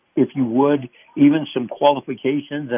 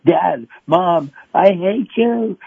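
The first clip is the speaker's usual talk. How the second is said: put-on angry child; 5 semitones higher, 3 dB louder, slower than usual. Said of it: "my children were angry at me".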